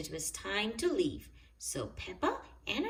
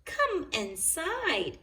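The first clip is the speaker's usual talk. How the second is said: lightly voiced elderly granny; 8 semitones higher, slower than usual. A narrator's reading. Granny Pig welcomes the children, slow granny voice. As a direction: invite them in gently, slowly.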